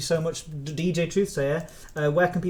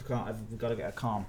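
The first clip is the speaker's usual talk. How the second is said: calming down; 5 semitones lower, 9 dB quieter, faster than usual. Real, not acted. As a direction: bring the volume and pitch right down. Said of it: "I'm gonna calm myself down".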